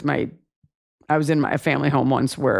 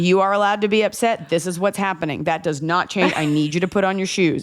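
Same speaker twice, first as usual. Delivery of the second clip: Texas sheriff mom. Retold or imitated. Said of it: "a Texas sheriff arresting a drug addict".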